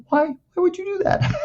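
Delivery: very high, slow dismayed squeal; mock shaken therapist. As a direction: imitate someone aghast at a prank. Therapist shaken by his fake electrocution.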